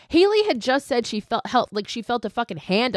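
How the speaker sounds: high, exasperated rant; infuriated. Real, not acted. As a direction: tear into her, pitch jumping up. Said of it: "Gemma just truly infuriates me".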